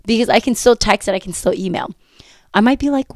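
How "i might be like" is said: breathy whisper. Shown as a demonstration. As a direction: drop to a whisper.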